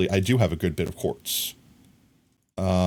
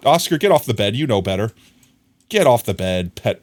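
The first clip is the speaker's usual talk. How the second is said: firm command to the dog, louder; firm scold to dog; 4 dB louder than usual. Real, not acted. Owner telling dog Oscar off the bed, firmly.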